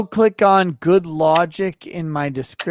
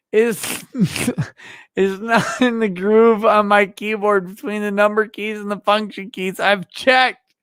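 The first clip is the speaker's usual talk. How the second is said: laughing; 5 semitones higher than usual. Real, not acted. Drunk, laughing, lost stylus.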